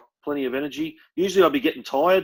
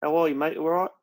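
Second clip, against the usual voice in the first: lightly mimicked English footballer's accent; 2 semitones higher than usual. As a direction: imitate an English star greeting a mate. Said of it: "That's the, that's the accent".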